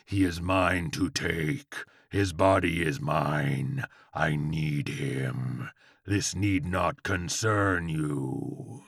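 low, slow demonic drone; howling demon Chihuahua. A narrator's reading. Chihuahua answers frightened George, low menacing howl. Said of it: "howled the Chihuahua".

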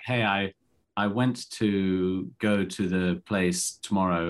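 slow, word-by-word imitation of a struggling learner; halting language learner. Actor mimicking his own clumsy French to locals, slow and halting. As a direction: feel your way through the sentence slowly. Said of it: "my declensions don't work".

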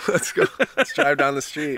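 high, loud freaked-out city slicker; urgent tourist who needs a toilet; panicky city person. Retold or imitated.

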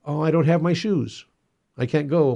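mock a chorus of children making excuses; imitated kids' excuse. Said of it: "A chorus of".

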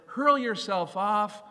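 a taunting shout from the temple top; tempter's dare. Acted. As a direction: dare him to jump, leaning on each word. Satan's dare, voiced by preacher.

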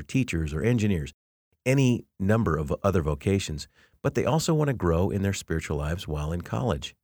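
brisk, continuous announcement read; podcast promo read. Acted. Professor pitches a scholarship to podcast listeners, promo read. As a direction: read it as a host's plug, moving along with few pauses.

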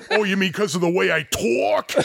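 put-on New York accent. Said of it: "he had some kind of accent".

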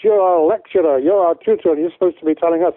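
lightly put-on Scottish accent as a rough engineer; bad Scottish accent. Retelling an angry student's complaint in a mild mock Scottish accent. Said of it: "that's a really bad Scottish accent".

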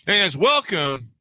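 cracking high greeting. Real, not acted. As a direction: voice breaks on the welcome. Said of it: "my voice cracked at the beginning there".

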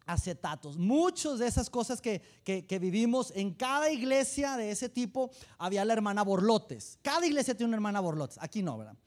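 ordinary delivery

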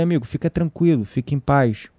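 low, steady, peaceable; telling the angry driver to go in peace, calm and low; calm reply. Retold or imitated. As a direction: settle him down gently. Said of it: "Eu falei".

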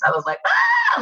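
a short, very high squeal of delight; fangirl scream. Retold or imitated. Actress retelling meeting Mick Foley, high fangirl squeal. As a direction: shriek like a starstruck fan meeting a hero. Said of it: "embarrassing, you know, fangirly experience".

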